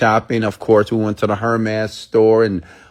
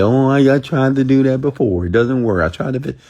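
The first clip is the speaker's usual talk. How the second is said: a touch higher, complaining doubter; mock whiny excuse; 4 semitones higher than usual. Speaker mimics listeners who say visualizing fails, mildly whiny. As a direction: play the doubter who already tried it. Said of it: "Some of you say".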